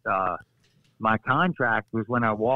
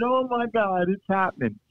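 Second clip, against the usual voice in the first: imitating excited friend; 9 semitones higher than usual. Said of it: "He said".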